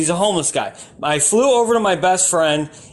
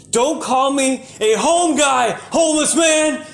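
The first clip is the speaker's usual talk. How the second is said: 1 indignant shout; 6 semitones higher than usual. Retold or imitated. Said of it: "And I was like".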